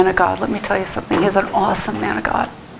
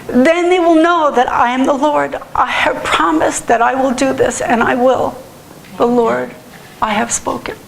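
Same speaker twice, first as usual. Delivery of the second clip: choked-up proclamation, pitched up; real tearful; 4 semitones higher than usual. Real, not acted. Preacher finishing the Lord's promise, crying as he reads. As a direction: push the scripture out through tears. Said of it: "I don't know why I'm crying".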